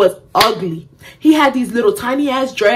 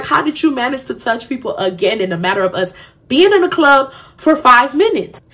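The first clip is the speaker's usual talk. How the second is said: incredulous; 4 semitones higher than usual. Retold or imitated. Incredulous inner thought.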